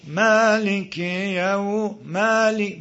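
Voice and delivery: "مالک" with a long vowel tinged toward i; demonstrated recitation. Shown as a demonstration. Teacher shows how reciters say it, "مالک" slow with tinted vowel. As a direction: draw out "مالک" slowly, as in recitation.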